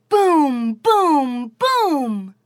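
booming narration. A narrator's reading. Snowman stomping arrives.

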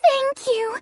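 talking while gobbling nuts; words round a mouthful of nuts; mouth full. Acted. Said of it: "gobble the nuts as she said".

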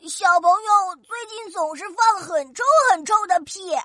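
talking with nose pinched; pinching nose. Acted. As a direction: pinch your nose while speaking. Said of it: "西兰花超人捏着鼻子说".

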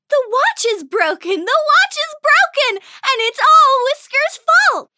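high, loud triumphant shout building up; pixie shouting. Acted. Pixie shouting Whiskers' secret, high and loud. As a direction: shout the secret to the whole house. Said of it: "With a louder voice, she shouted".

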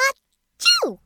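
high little sneeze; a tiny copied sneeze. Acted.

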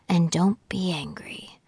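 whisper. Acted. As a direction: breathe the words out like a secret spell. Mother recites calming spell.

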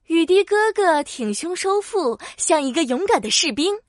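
usual speaking voice

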